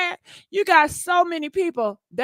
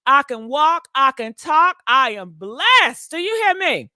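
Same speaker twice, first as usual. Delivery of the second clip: preaching; 5 dB louder than usual. Real, not acted. Preaching her blessings to viewers.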